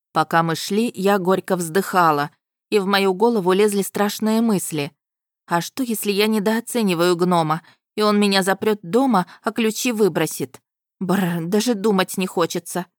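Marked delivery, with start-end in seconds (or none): none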